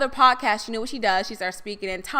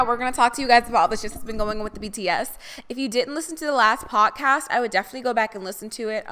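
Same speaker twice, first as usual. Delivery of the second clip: normal talking voice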